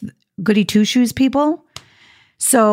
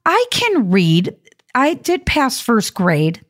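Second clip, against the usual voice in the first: sarcastic; 3 semitones higher, slower than usual. Retold or imitated. Retold comeback to scolding woman.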